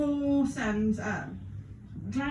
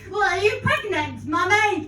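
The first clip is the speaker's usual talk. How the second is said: put-on child voice; 4 semitones higher, 3 dB louder than usual. Child voice in Peppa Pig bit.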